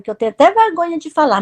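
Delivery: ordinary talk, nothing marked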